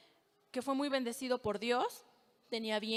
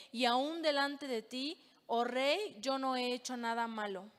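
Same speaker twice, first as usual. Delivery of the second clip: measured, solemn Bible reading voice; scripture reading. Acted. Preacher reading Daniel to the congregation, solemn reading. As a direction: read the passage aloud to the church, steady and grave.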